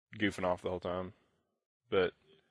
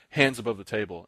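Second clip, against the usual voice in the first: louder, imitated opponent giving an order; mildly hostile order; 5 dB louder than usual. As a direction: order him with a touch of hostility.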